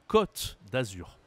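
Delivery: côte said with a short open O, like "cotte"; no circumflex. Shown as a demonstration. Teacher shows the accent left out, open short O in côte. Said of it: "Si je ne mets pas l'accent circonflexe".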